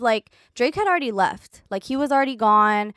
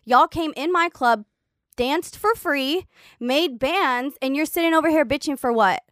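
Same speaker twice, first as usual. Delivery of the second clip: raised pitch, acted-out scolding; indignant telling-off; 5 semitones higher, 3 dB louder than usual. Club owner scolds dancers who came to his club, acted indignation. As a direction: play the offended boss laying into them.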